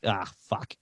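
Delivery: low, soft letdown sigh; deflated groan. Retold or imitated. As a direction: mutter it, crushed. Deflated reaction to girl.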